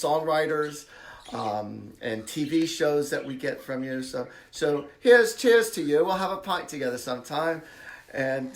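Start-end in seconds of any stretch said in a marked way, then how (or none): 5.0-7.6 British toast. Pretend. Toasting a British caller in accent.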